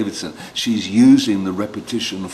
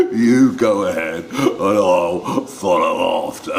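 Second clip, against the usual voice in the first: chuckling Gruffalo; 3 semitones lower than usual. Acted. Gruffalo laughing voiced.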